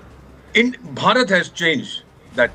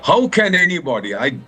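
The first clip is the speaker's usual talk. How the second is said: real anger; 6 semitones higher than usual. Real, not acted. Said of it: "I'm angry, sir".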